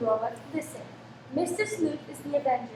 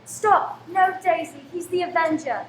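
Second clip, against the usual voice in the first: sharp raised cry of warning; urgent warning; 2 semitones higher, 5 dB louder than usual. Acted. Mother warning her daughter away from the killer, urgent cry. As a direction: stop her in her tracks.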